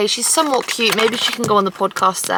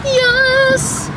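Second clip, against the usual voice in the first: triumphant yes; 13 semitones higher than usual. Real, not acted. Escaped the crowd.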